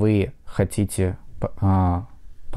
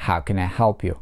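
how can I help you falling from help; falling tune, stress on help; 3 semitones lower than usual. Shown as a demonstration. Teacher models a wh-question falling. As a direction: press help then fall. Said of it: "под ударением ... глагол help".

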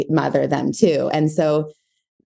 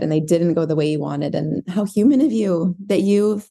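gently understanding, lightly raised pitch at first; mother voice. Acted. Self as mother forgives a bad day, mildly tender. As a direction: reassure with a touch of motherly tenderness. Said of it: "the same voice that I'm using for my child".

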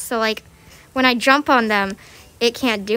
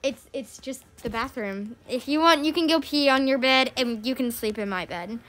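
retold reassurance; 8 dB quieter than usual. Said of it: "And then I was like".

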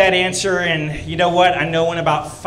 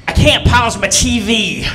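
lightly imitated Arkansas country drawl; a touch of Arkansas accent, slow; Arkansas country mom; 4 semitones higher, 4 dB louder, slower than usual. Son imitates his Arkansas mom on the phone, light country accent. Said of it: "She's real country from Arkansas".

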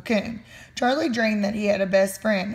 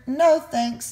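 smiling; 4 semitones higher than usual. Acted.

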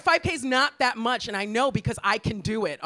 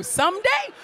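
high, louder incredulous yell; outraged disbelief; 12 semitones higher, 5 dB louder than usual. Real, not acted. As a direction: shriek in outrage at the option.

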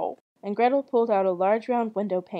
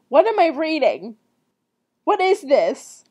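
loud, higher disbelief; baffled outburst; 4 semitones higher, 6 dB louder than usual. Real, not acted. Reader thrown by the odd outro, loud bafflement. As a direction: break off, loudly bewildered.

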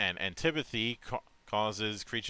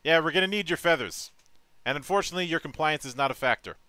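menacing villain; 7 semitones higher, 7 dB louder, faster than usual. Pretend. Mock villain threat to phoenix.

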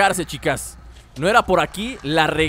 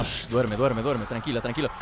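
whispering over a crib; 8 semitones lower, 5 dB quieter than usual. Pretend. Soothing clicker back to sleep.

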